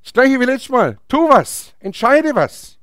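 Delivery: high, emphatic short commands; urgent exhortation. Acted. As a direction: urge the listener into action. Urges action in God's voice. (eindringlich auffordernd, mit erhobener Stimme)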